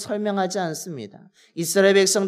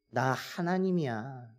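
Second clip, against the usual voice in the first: God speaking plainly; 4 semitones higher, 3 dB louder than usual. Retold or imitated. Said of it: "지금 모세에게 말씀하고 있는 것입니다".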